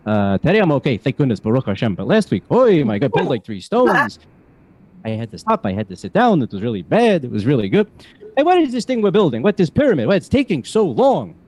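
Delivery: put-on old Jewish man accent, kvetching; Yiddish-flavored New York accent. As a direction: complain like an old Jewish grandpa. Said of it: "hearing my Jewish accent".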